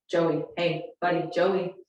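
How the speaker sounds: put-on calm call for a kid's attention; patient, friendly summons; kindly name-calling. Shown as a demonstration. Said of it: "so say their name kindly".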